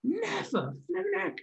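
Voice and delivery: high, soft astonished gasp of never; breathy amazement, way up in the voice; astonished disbelief. Real, not acted. Podcast host amazed the myth was true, in disbelief.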